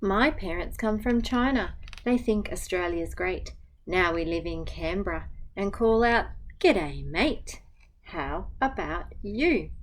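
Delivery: gentle, even picture-book reading; reading to children. Acted. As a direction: read the rhyme aloud to a class. Teacher reads picture book aloud.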